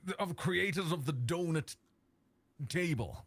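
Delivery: put-on proper English presenter; slow, lightly English host voice. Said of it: "when you put that voice on, you sound proper English".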